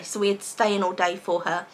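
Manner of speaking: normal talking voice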